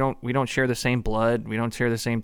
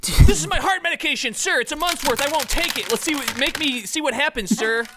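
eager pledge; 13 semitones higher, 3 dB louder than usual. Acted.

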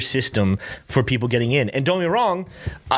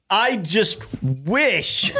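mock crying; 5 semitones higher, much slower than usual. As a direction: fake sob through laughter. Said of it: "Why are you crying?".

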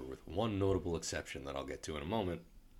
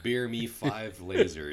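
slow, louder mock demand; villain boast; 5 semitones higher, 6 dB louder, slower than usual. First Order villains demanding more lasers, hammed-up boast. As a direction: ham up a greedy villain. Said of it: "They're like".

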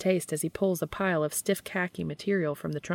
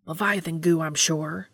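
hissed; 4 dB louder than usual. Acted. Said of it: "Dean hisses".

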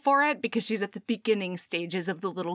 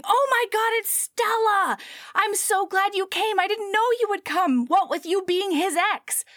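high, loud gushing greeting; excited shout; 11 semitones higher, 3 dB louder than usual. Acted. Party guests greeting Stella in a high excited gush. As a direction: gush at her like a thrilled relative. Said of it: "people immediately just start shouting".

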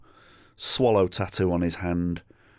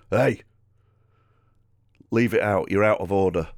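firm telling-off; 2 semitones higher, 4 dB louder than usual. Retold or imitated. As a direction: call him out firmly. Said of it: "my mate ... goes".

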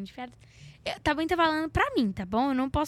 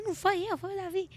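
put-on kid protesting; 7 semitones higher, 3 dB quieter than usual. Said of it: "eu falo assim".

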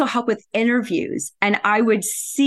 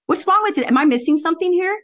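indignant disbelief; 8 semitones higher, faster than usual. Retold or imitated. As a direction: play dumb to expose the pay gap. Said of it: "And I would bring it up".

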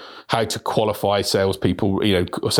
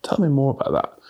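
gentle sensitive tone; 4 semitones higher than usual. Shown as a demonstration. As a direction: draw them out kindly. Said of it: "using those tones".

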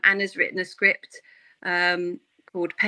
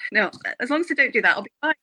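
ordinary talk

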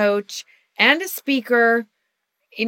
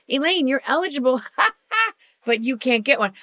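higher, fast chirpy notice voice; mock official announcement; 4 semitones higher, faster than usual. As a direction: rattle it off like a form email. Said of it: "New Jersey keeps going".

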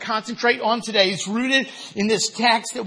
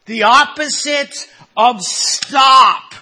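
emphatic preaching; 3 semitones higher, 6 dB louder, slower than usual. Real, not acted. Preacher defines go.

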